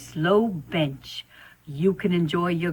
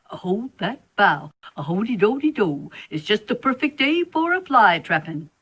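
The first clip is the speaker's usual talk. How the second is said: sing-song spider; 3 semitones higher than usual. Acted. Spider sings again.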